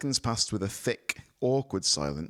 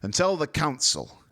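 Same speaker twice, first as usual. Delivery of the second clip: higher, louder, slow spitting contempt; spat; 8 semitones higher, 6 dB louder than usual. A narrator's reading. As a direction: spit the word Council. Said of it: "he spat the word".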